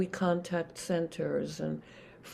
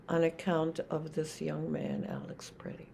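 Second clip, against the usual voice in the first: hushed whisper; 2 semitones lower, 7 dB quieter than usual. Retold or imitated. Repeating the grieving friend's words in a whisper. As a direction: drop to a breathy whisper.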